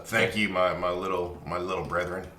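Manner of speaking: put-on Nash's odd accent. Nash thanking the little fairies, odd accent. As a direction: thank them in a lightly put-on, out-of-place accent. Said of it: "you're not from an area that has that accent".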